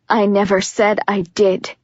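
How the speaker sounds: calm, low, full of regret; deep steady voice. Acted. Jenkins answering Juliet, deep, steady and regretful. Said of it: "Jenkins' voice is deep and steady".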